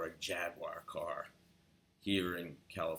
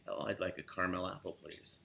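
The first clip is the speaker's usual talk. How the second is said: drawn out. Retold or imitated. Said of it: "little drawn out".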